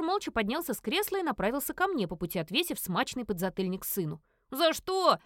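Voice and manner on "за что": offended protest. Acted. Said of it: "обиженно возмутился тот".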